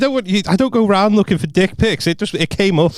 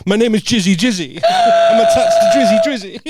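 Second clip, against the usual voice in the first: silly character voice; 8 semitones higher than usual. Pretend. Co-host voicing the waving inflatable, silly and high. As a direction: pipe up as a silly cartoon character.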